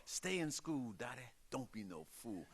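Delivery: put-on jaw out, holler it in a southern accent like a famous singer; a kid's mock southern holler imitating a singer. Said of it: "holler in a southern accent".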